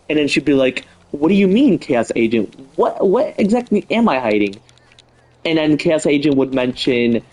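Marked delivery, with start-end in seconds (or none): 1.1-4.6 innocent. Acted. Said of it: "act all innocent with Chaos Agent".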